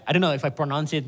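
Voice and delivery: usual speaking voice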